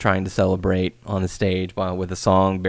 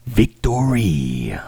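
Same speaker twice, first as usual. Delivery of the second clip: slow whispered victory; much slower than usual. Pretend. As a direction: breathe out victory slowly.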